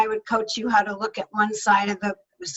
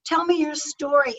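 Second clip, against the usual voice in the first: eager listener; 3 semitones higher than usual. Pretend. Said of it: "the question in their mind isn't".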